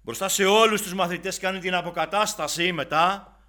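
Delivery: high, loud preacher's cry; impassioned sermon climax; fiery preaching. Acted. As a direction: preach it out with fire, slowing at the end. Preaching at full force.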